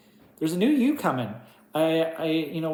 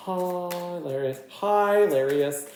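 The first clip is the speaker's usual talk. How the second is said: savoring the word; 3 semitones higher, slower than usual. Shown as a demonstration. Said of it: "that was hilarious".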